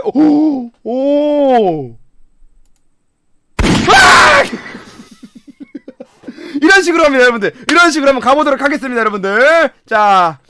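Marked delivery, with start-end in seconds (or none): 3.9-4.4 high startled yell; a real jolt of shock, yelled; sudden shocked shout. Real, not acted. 6.6-7.5 fast, laughing shout; laughing through words. Real, not acted. Laughing after shock.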